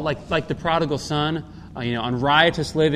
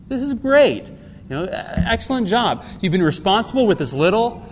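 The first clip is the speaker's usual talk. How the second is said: acted delight, pitched higher; very pleased master; 5 semitones higher than usual. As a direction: praise a servant who has done well. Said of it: "He's very pleased".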